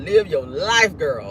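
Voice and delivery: put-on "girl" leaned on, pitch dropping low; emphatic, low-falling "girl"; stress on GIRL. Shown as a demonstration. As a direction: lean on "girl" as it falls. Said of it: "Emphasis on the girl".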